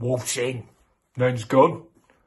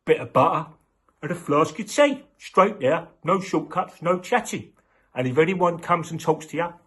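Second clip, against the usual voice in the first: higher, louder nagging mum voice; bossy mum; 6 semitones higher, 4 dB louder than usual. Acted. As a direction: rattle off orders like a strict mum. Mum giving Red strict orders.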